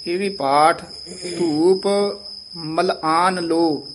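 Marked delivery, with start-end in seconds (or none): 2.6-3.9 slow ਮਲ ਆਨ said as one word with no break; joined phrase. Shown as a demonstration. Teacher correcting the student's reading, slow joined ਮਲ ਆਨ. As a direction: run ਮਲ ਆਨ together, then ਲੋ. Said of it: "ਮਲ ਆਨ ਇਕੱਠਾ ਬੋਲ ਦੇਣਾ ਹੈ".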